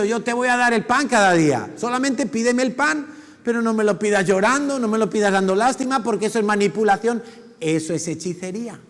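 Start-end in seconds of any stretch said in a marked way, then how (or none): 0.0-7.2 voice of God. Retold or imitated. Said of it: "Si Dios ha dicho".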